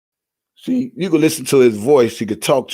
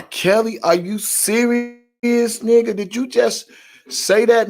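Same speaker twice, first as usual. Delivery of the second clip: incredulous retort; 4 semitones higher than usual. Retold or imitated. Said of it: "I'm like".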